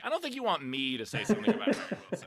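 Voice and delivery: quick laughing reply. Retold or imitated. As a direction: laugh through the line.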